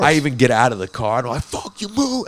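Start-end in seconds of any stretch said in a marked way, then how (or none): 1.4-2.2 retold yell. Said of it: "I'm yelling at everybody else".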